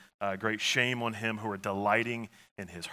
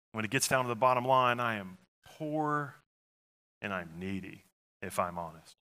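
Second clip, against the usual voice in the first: humble honest confession. Pretend. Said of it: "do we enter as somebody who says".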